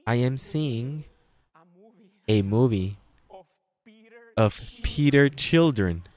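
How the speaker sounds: put-on halting Spanish-accented recital, pauses between phrases; mock a Spanish learner acting in a school play; stilted beginner's English with Spanish accent; imitated Spanish accent. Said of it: "Like this with the accent".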